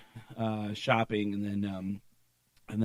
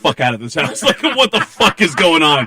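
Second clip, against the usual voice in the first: loud, raised-pitch freak-out for laughs; mock panic; 4 semitones higher, 14 dB louder than usual. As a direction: play up a desperate urge to flee. Retold panic at the shocking joke.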